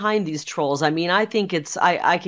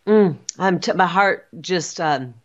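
real emotion catching in the throat, slowed and broken; words stalling as feeling rises; halting, moved to the edge of tears; choked up. Real, not acted. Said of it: "I'm getting emotional right now".

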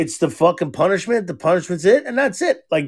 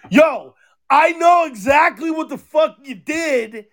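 put-on higher, shouted at the kid; mock shout; 7 semitones higher than usual. Dad retelling calling out daughter, shouting higher.

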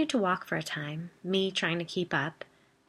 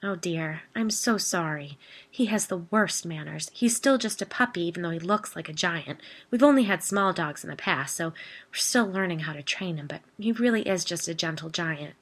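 rambling. Acted. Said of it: "the woman rambled".

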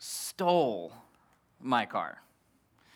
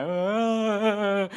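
tag; 5 semitones higher than usual. Retold or imitated. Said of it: "tears of joy".

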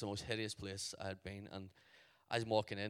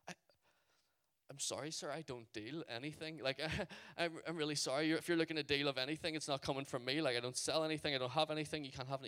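raised-pitch, flustered apology; mild panic; 4 semitones higher, faster than usual. Retold or imitated. Telling a stranger he doesn't deal, mild panicky babbling. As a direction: babble excuses, starting to panic. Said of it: "I start to panic".

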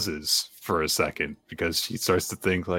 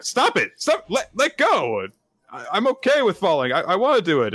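put-on much higher pleading girl voice; 9 semitones higher than usual. Asa begging Denji to let her fall, high pleading. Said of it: "Asa is being like".

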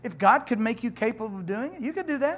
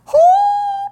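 high squeal; 13 dB louder than usual. Acted. Excited outburst about delivery.

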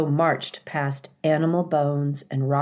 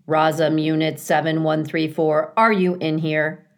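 flat robot voice; 4 dB louder than usual. Acted. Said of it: "his own flat voice".

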